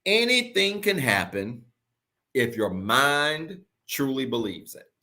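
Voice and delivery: drawn out slowly, each word weighed; slow deliberate declaration; slow emphatic. Shown as a demonstration. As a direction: lay it down slow for the recording. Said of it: "I want you to record this".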